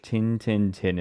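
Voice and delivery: Yorkshire "tin, tin" with clipped vowels; Yorkshire accent. Shown as a demonstration. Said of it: "In Yorkshire English".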